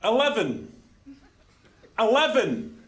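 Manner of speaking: dogged repetition, each falling at the end; same way repeatedly. Acted. Man insisting to a lift, stubborn unvaried repetition. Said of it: "You're just saying it the same way".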